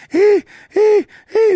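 high, loud taunting "hey"; Forrest Gump bully voice. Retold or imitated. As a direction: call out like a schoolyard bully. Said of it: "he's like".

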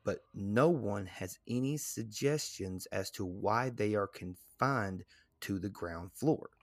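measured guide narration, slowing at the close; read-aloud narration. Real, not acted. Host reading reported hauntings to the co-host, read-aloud narration. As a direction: read the entry out deliberately. Reads museum entry aloud.

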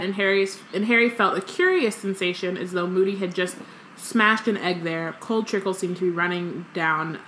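lively story reading, quotes lightly voiced; reading aloud. A narrator's reading. Co-host reads the chapter aloud, lively storytelling. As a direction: read the book to a friend.

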